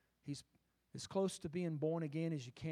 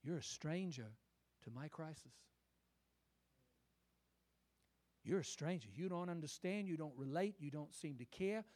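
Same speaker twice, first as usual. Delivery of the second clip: hurt accusation; 4 dB quieter than usual. Acted. A disciple quietly reproaching Jesus on the road, hurt. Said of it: "what he accused Jesus of".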